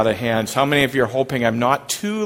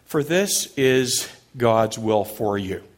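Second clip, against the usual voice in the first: slow quoted phrase; slower than usual. Shown as a demonstration. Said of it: "I'll start with the phrase".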